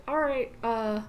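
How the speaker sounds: lightly voiced friendly bartender, easy and casual; a hint of a polite bartender sending a regular home; bartender closing up. Bartender politely telling the lingering customer they're closing. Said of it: "We'll probably just say".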